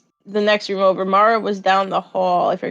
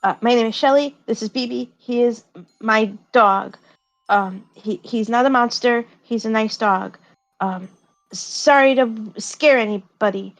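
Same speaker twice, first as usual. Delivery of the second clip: put-on shy girl; 3 semitones higher than usual. Shy character introduces her dog.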